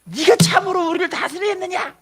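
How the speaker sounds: high, indignant challenge; hateful challenge. Acted. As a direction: throw it at him in resentful disbelief. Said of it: "라고 하면서 막 이 꿈 때문에 미워하는".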